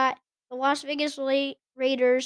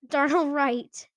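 laughing correction; slower than usual. Real, not acted. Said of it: "I just said that wrong".

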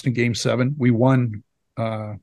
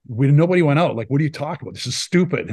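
retold argument, louder and higher at first; fired-up protest; 3 semitones higher, 3 dB louder than usual. Player argues back that nobody went out, retold with fired-up protest. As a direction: act out getting worked up in denial. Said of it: "And I'm getting really fired up".

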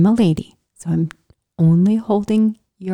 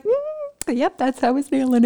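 sarcastic; 7 semitones higher than usual. Retold or imitated. Self-mocking reply to aunt.

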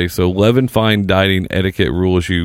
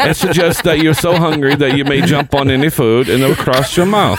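higher, hammed-up attempt at southern; southern accent going astray; 4 semitones higher than usual. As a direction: let the fake southern accent drift into something else. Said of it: "you start going into something else there at the end".

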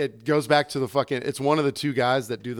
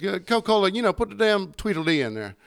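country guy; 6 semitones higher than usual. Retold or imitated. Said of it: "this dude's fucking country as fuck".

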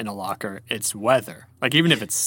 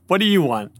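raised, demanding lion question; lion impression; 5 semitones higher, 3 dB louder than usual. Host re-enacting the lion's question for co-host, demanding. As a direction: lightly imitate the lion's demand. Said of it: "It's like".

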